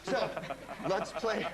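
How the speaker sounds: lets play in a Scottish lilt; a playful Scottish burr on play; Scottish accent. Acted. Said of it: "That was my Scottish accent".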